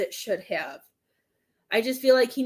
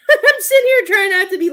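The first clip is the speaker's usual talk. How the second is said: embarrassed laugh while fighting back tears; laughing through tears; 8 semitones higher, 10 dB louder, faster than usual. Real, not acted. Psychic laughing at herself for nearly sobbing, teary laugh. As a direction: laugh it off while trying not to cry. Reader laughs at own emotion.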